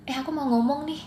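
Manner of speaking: lightly acted teen-to-friend aside; casual informal chat. Teen telling a friend they want to talk, casual and informal.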